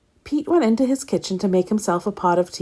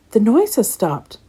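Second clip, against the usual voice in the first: happily; 4 semitones higher than usual. Acted. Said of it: "he thought happily".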